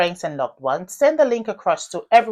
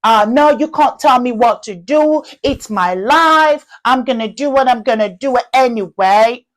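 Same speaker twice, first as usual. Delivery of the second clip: put-on defiant teenage girl; 4 semitones higher, 5 dB louder than usual. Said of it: "teenage girls where they go".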